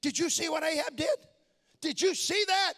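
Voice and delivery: mild incredulous wonder, rising; voicing God gently amazed at Ahab; surprised God. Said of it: "a note of surprise in the voice of God".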